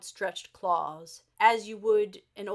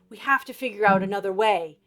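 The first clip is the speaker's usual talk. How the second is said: higher and higher, rushed, then a stretched-out "think"; Abba voice, building urgency; 5 semitones higher than usual. Acted. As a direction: Abba pushing herself to find an idea. Abba urging herself.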